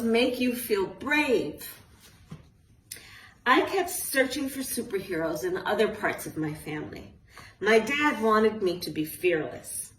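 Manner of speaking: put-on lively storybook reading to kids; reading to children. A narrator's reading. Author reading her book aloud to a group of children, lively storytelling. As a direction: read it like a bedtime picture book.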